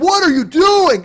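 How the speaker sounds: high, loud and slow indignant shout; outraged yell. Retold or imitated. Agent demanding what he is doing, high slow outraged shout. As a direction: drag it out in outrage. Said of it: "he's like".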